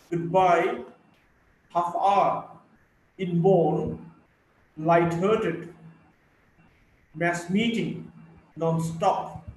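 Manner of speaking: both parts stressed, the second carrying the tone: AF-ter-NOON, GOOD-BYE; double stress. Shown as a demonstration. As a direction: give each element weight, as in RED-HOT, HALF HOUR. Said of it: "both elements are stressed".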